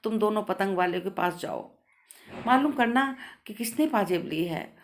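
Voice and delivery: measured read-aloud storytelling with lightly voiced dialogue; story narration. A narrator's reading. Narrator reads the story of the missing पाजेब to listeners, story narration.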